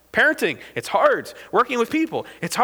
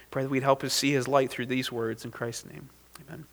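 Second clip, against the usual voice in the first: lower, subdued prayer voice; spoken prayer; 5 semitones lower, 4 dB quieter than usual. Real, not acted. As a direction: pray quietly and evenly for the congregation. Prays aloud before the sermon.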